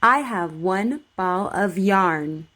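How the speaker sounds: slow, careful model sentence for repeating; over enunciating. Shown as a demonstration. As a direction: say each word clearly and slowly. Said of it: "Just repeat after me".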